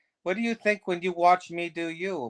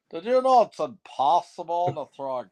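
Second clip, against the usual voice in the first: Harland Williams; 3 semitones higher, 4 dB louder than usual. Retold or imitated. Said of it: "Harland Williams".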